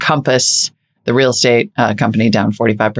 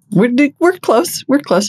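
mock dread; 12 semitones higher than usual. Mock dread about SoftBank.

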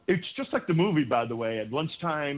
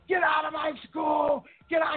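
retold shout. Principal ordering the boy out of school, high retold shout. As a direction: bellow him out of the building.

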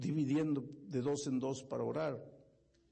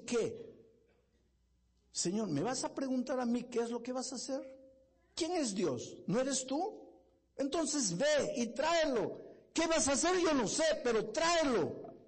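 bold pleading prayer; 10 semitones higher than usual. Retold or imitated. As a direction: command God to bring the boy, full force. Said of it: "Pero qué atrevido este muchacho".

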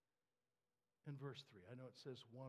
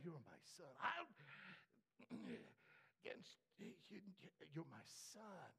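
softer reassuring father; a hint of a gentle father; 3 dB quieter than usual. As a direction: quietly talk over his plea.

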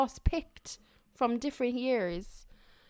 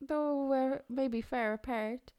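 slow, halting Walken impression; Christopher Walken. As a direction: stretch it out in Walken's odd rhythm. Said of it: "Christopher Walken".

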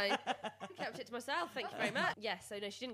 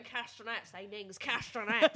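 Alan Partridge; 3 dB louder than usual. Retold or imitated. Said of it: "Alan Partridge impressions of how he would say castanets".

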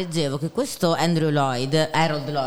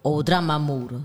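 Neapolitan dialect word, said with relish; accento napoletano. Shown as a demonstration. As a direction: say it like a Naples local. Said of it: "come si dice ascensore in dialetto napoletano". (accento napoletano marcato)

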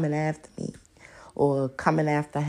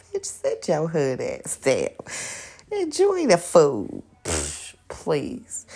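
mock boyfriend scolding; 3 semitones lower, slower than usual.

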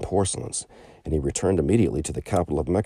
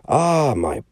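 slow drawn-out friar's sigh of regret; a gentle holy man letting him down; kindly friar; 4 semitones higher, 4 dB louder, slower than usual. Acted. Old friar tells the merchant he has no money, regretful.

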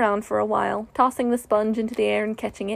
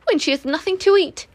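higher, haughty otter asking for food; 7 semitones higher, 4 dB louder than usual. A narrator's reading. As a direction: sniff it out grandly. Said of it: "she added in a haughty voice".

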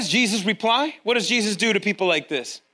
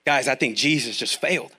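usual speaking voice

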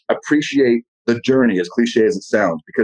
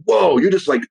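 high, wide-eyed gush; mock awe; 6 semitones higher than usual. Host imitating people amazed by a strong person, mock awe. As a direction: gush at someone else's power. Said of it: "It's like".

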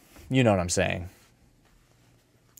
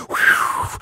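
blowing wind; 3 dB louder than usual. Retold or imitated. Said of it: "the hurricane said".

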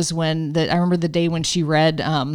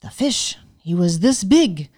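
retold amazement, pitched higher; imitating a friend's wide-eyed disbelief; higher, amazed questioning; shocked and amazed; 4 semitones higher, 4 dB louder than usual. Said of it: "she was shocked and amazed".

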